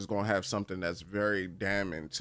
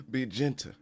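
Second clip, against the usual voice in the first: laughing, higher, coaxing be gentle; teasing be gentle; 4 semitones higher than usual. Retold or imitated. Urging the character to ease off gently. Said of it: "I'm always like".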